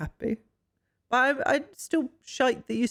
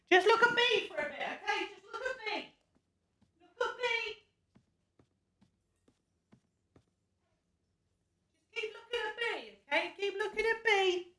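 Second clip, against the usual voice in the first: softer, higher, gently pleading; hushed coaxing; 8 semitones higher, 8 dB quieter than usual. Real, not acted. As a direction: coax someone to stay still without startling them. Coaxing a villager to hold still.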